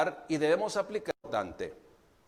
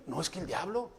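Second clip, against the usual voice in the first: mock whiny excuse; 8 dB quieter, faster than usual. Mocking believers' devil excuses.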